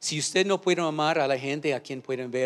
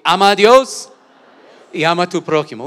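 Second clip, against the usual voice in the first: much louder, pitched up, a full shout; 5 semitones higher, 14 dB louder than usual. Shown as a demonstration. Pastor urging the church to say it louder, shouting. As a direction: shout it out with everything. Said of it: "Una vez más fuerte".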